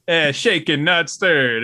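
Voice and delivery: light mock Staten Island accent on a Bond line; a hint of a Staten Island drawl, half-laughing; loosely imitated Staten Island accent. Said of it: "in a weird accent, like a Staten Island accent".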